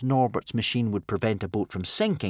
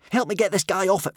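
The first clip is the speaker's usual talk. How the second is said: urgent plea; 8 semitones higher, 3 dB louder, faster than usual. A narrator's reading.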